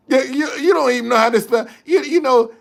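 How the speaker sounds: mock them while still laughing; laughing mockery. Real, not acted. Streamer teasing a commenter who can't spell, laughing.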